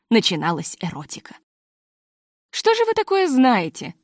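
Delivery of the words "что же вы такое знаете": deliberately loud question, raised high; loud on purpose. A narrator's reading. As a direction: speak up pointedly so he raises his voice. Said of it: "спросила я громко, нарочно".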